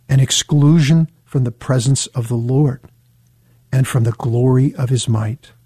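deliberate rereading with a long pause mid-verse; measured, solemn scripture reading; slow reading. Shown as a demonstration. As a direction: read it slowly, phrase by phrase. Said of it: "gonna read it slowly one more time".

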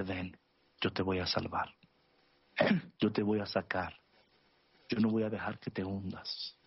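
low, tender promise with pauses; gentle reassurance. Retold or imitated. Jesus to sinking Peter, low and reassuring.

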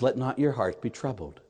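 gentle reassurance. Retold or imitated. Jesus looking at the troubled believer, gentle reassurance. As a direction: soothe quietly after the taunting. Jesus answers the devil's taunts.

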